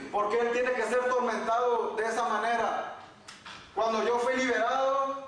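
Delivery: lightly acted appeal, pitch lifted throughout; pleading questioning. Preacher retelling how he asked the Holy Spirit why, mildly pleading.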